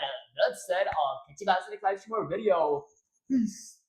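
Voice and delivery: loud, upbeat radio host outro. Acted. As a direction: sell it like a radio DJ. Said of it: "That was, like, so much better".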